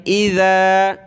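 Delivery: इज़ा said with an interdental ज़; tongue out for zaal. Shown as a demonstration. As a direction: stick the tongue out as you say इज़ा. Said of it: "ज़बान निकालें".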